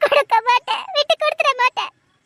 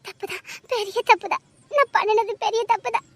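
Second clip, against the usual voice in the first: softer, crying voice; quiet tearful admission; 5 dB quieter than usual. Acted. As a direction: admit it through tears. Admitting big mistake, crying. (அழுகையுடன் ஒப்புதல்)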